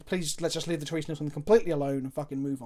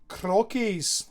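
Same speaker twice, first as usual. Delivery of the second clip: a light, quick mock Scottish accent; Scottish impression; 3 semitones higher, 4 dB louder than usual. Streamer teasing his Scottish chat friend, light mock Scottish accent. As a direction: say the name like a Scotsman, half-joking. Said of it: "That's my impression of a Scotsman".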